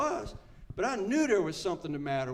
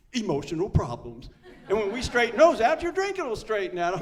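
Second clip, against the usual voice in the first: a hint of a pompous expert, louder; lightly voiced stuffy doctor; mock clinical verdict; 3 semitones higher, 6 dB louder than usual. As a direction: lay out the diagnosis with gravity. Quoting the clinicians.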